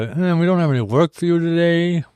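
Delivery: lightly voiced boss sending workers home; mock employer. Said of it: "they'll probably go".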